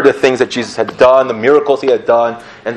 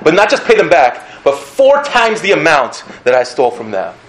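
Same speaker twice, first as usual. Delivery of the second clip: eager pledge; 4 semitones higher than usual. Retold or imitated. Zacchaeus pledges his money.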